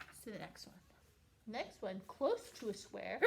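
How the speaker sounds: trying to hold back a hiccup; hiccuping through the words. Real, not acted. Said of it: "another hiccup".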